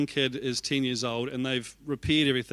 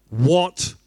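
shocked what; 7 dB louder than usual. Retold or imitated. Shocked by the same three words.

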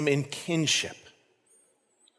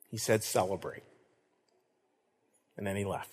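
a softer, awed retelling of one word; hushed, reverent; 8 semitones lower, 10 dB quieter than usual. Retold or imitated. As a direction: drop softer for the dead husband's word. Hushed retelling of husband's visit.

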